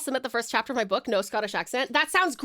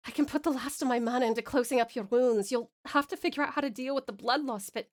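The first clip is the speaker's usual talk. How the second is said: put-on earnest, imperfect Scottish accent; amateur Scottish accent; 3 dB quieter than usual. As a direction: reason it out in a shaky attempt at Scottish. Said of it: "butchered it with my terrible accent".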